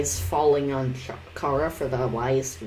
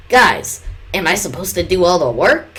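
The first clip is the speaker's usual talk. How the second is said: shouting. Acted. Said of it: "shouted Flowey".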